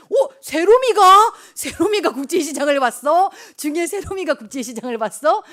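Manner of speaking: loud, high, stretched-out surprise; amazed. Real, not acted. Pastor amazed that a young pupil saw the film, loud and high. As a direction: exclaim it in real astonishment. Astonished at a child's raised hand.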